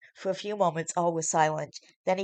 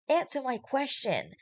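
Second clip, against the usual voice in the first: higher, slow angry demand; 8 semitones higher than usual. Acted. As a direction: snap the demand at him. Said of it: "Seeing her yelling".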